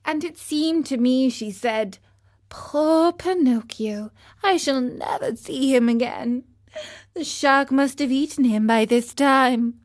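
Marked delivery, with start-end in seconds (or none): 2.5-9.8 mild sad bleat. Acted. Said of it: "went away bleating sadly".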